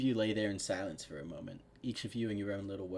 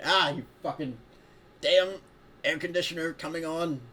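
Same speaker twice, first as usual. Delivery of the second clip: loud, higher exasperated outburst; real annoyance; 8 semitones higher, 8 dB louder than usual. Real, not acted. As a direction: curse the interruption, exasperated. Air conditioner interrupts the reading.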